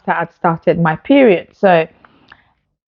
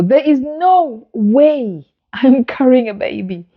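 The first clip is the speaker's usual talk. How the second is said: climbing higher, line by line, in disbelief; 5 semitones higher than usual. Retold or imitated. Patient telling the doctor it cannot be true, rising in disbelief. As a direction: rise steadily in pitch, refusing to believe it. Told she is pregnant.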